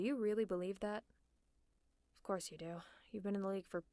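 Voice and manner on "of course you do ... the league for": soft and knowing; resigned murmur. Acted. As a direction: say it under your breath. Resigned aside to the hero.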